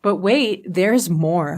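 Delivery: playful salesy punchline; mock infomercial pitch. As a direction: echo the infomercial hook with a grin. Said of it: "I feel like we should do an infomercial".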